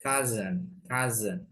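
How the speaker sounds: cousin said as "KAH-zen". Shown as a demonstration. Teacher repeating for learners, cousin with a z. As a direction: say "cousin" with a buzzing z in the middle. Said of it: "Jadi S-nya jadi Z ya".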